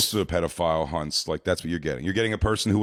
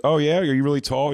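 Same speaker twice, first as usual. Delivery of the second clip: higher, louder playful question; fake girl; 6 semitones higher, 4 dB louder than usual. Fake girl chatting to the man online, lightly mock-impressed. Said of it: "the fake girl's like".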